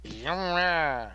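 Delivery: put-on drawn-out Southern cowboy accent. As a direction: stretch it out in a Southern drawl. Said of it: "use the cowboy voice".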